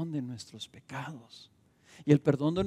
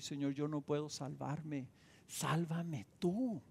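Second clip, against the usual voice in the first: humble quiet prayer; 8 dB quieter, slower than usual. Pretend. Model prayer of surrender.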